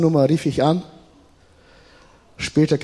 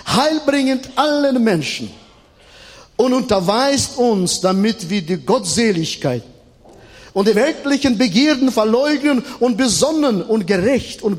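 emphatic preacher with drawn-out, often raised phrases; preaching; 5 semitones higher than usual. Real, not acted. Preacher proclaiming scripture and expectation of Christ, emphatic preaching.

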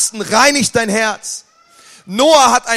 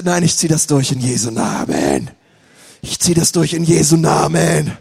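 resolute vow; 7 semitones lower than usual. Retold or imitated. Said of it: "Dann sagst du".

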